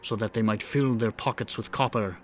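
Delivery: measured dramatic story narration; grand rhythmic bard. Acted. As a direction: tell it like a bard at the fire. Bard narrates the fae tale.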